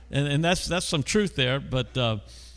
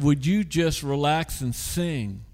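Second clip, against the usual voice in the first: calm voice of the Lord; 4 dB quieter, slower than usual. Retold or imitated. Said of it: "the Lord said".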